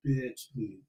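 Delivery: stuck-up rich woman. Pretend. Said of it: "A stuck-up bitch with a Persian cat".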